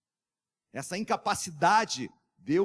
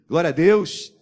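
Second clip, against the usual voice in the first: loud rising call to the church; full-voiced preacher's shout; shouted praise; 10 dB louder than usual. Real, not acted. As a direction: lift the crowd with a cry of praise. Preacher calls out to congregation.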